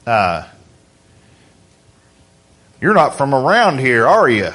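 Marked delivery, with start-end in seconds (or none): 2.8-4.5 imitated small-town country accent, a little lower; country local accent. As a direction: play a country local sizing up an outsider. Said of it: "it won't sound quite like that".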